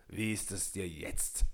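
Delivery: soft, quiet smiling question; understated smile in a hushed giant's voice. A narrator's reading. Michel asks Peter after returning his heart, quietly smiling. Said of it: "fragte Michel lächelnd".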